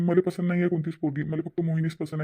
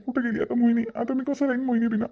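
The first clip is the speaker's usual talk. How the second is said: crying; 5 semitones higher than usual. Acted. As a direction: wail it out, blaming yourself. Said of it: "रडू नका भाऊजी तुम्ही".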